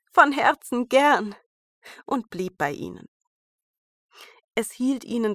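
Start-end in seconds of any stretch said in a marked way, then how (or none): 0.1-1.4 bright loud eager yes; glad. A narrator's reading. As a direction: answer gladly. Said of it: "sagte Schneewittchen".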